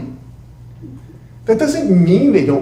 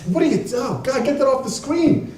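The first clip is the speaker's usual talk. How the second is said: disgusted wife; 10 semitones higher than usual. Retold or imitated. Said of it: "My wife will come down the stairs".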